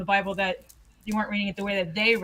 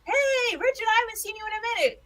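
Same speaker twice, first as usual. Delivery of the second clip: Southern greeting; 12 semitones higher than usual. Retold or imitated. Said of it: "anybody that lives in the South".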